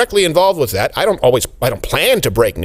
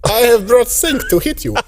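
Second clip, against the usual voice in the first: laughing mock accent, higher; mock Russian Elon; 9 semitones higher than usual. Elon threatens Vijaya with a sink, laughing mock accent. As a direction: ham up a Russian boss.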